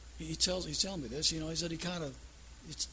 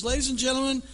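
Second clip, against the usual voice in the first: high, loud, fast pleading pilot; hammed-up frantic captain; panicky captain; 7 semitones higher, 7 dB louder than usual. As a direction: beg the passengers not to panic. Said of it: "He says".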